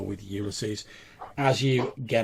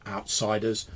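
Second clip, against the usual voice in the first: lightly stern servant; 4 dB louder than usual. Acted. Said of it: "he says".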